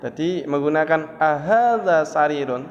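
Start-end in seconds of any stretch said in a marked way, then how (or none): 1.2-2.7 AHADZA lifted and stretched, then falling on sarirun; questioning intonation. Shown as a demonstration. Teacher showing students the Arabic question intonation, with questioning intonation. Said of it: "Bagaimana intonasinya".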